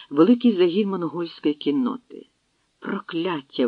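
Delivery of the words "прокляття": ordinary delivery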